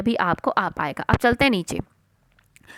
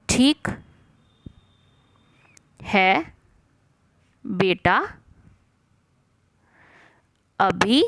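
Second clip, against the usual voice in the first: slow dictation; 3 semitones lower, much slower than usual. Shown as a demonstration. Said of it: "teacher dictating dialogue slowly".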